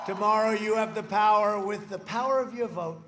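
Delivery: booming, stressing POWER; loud rally call. Real, not acted. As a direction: call it out to the crowd. Rally crowd, first statement.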